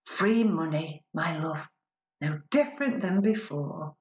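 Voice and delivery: rhythmic performance-poetry recital; measured spoken word delivery addressing an imagined husband; spoken word poem. Acted. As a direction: deliver the verse with a poet's timing.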